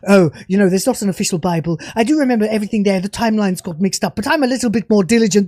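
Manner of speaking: a lightly sneering parody of a dismissive writer; mock showrunner, lightly voiced and rushed.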